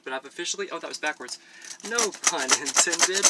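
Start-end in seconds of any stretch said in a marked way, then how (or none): 1.9-3.2 slow, loud, drawn-out emphasis; loud, deliberate aside. Real, not acted. Vlogger redoing the pun line after a slip, loud and deliberate. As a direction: punch out each word slowly.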